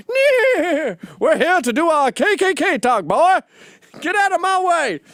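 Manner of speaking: high, loud hammed-up redneck rider; mock Klansman. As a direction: bellow it like a cartoon Klansman. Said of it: "showed up on horses in Klansman uniforms".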